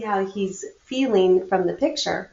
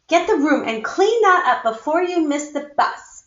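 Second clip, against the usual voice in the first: a hint of a stern mother; lightly scolding, hurried; mild scolding; 4 semitones higher than usual. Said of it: "scolded Mom".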